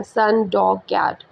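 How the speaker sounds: सन, डॉग, कैट each said as one unbroken syllable; in one flow. Shown as a demonstration. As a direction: read सन, डॉग, कैट straight through without stopping. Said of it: "एक ही flow में पढ़ देते हैं".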